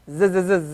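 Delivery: Arabic zai, a soft buzzing z. Shown as a demonstration. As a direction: hum the z to show zai. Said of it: "So this is zai".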